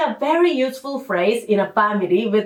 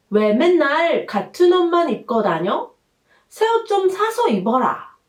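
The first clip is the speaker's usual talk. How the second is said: big sister; 5 semitones higher, much faster than usual. Shown as a demonstration. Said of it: "as if you become a big sister".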